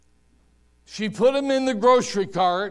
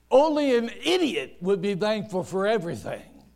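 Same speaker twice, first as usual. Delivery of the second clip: ordinary talk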